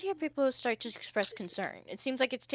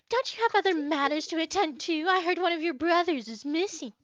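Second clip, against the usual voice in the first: higher-pitched, lightly voiced prince; retorting Hoshi; 5 semitones higher than usual. Hoshi dismissing his rival Soul, lightly voiced retort. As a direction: fire back with a pointed, raised-pitch question. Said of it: "Hoshi kinda goes".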